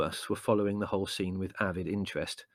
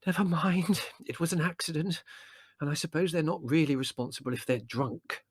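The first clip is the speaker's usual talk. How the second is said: mother voice; 8 semitones higher than usual. A narrator's reading.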